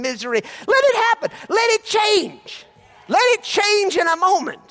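high, loud, urgent exhortation; fervent preaching. Real, not acted. Preacher urges the congregation to let it change, fervent and loud. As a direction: drive it home to the crowd.

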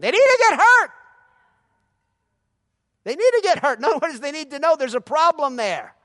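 high, loud forceful declaration; preaching shout. Acted. Pastor insisting people need correcting, loud preaching shout. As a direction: hit it hard from the pulpit.

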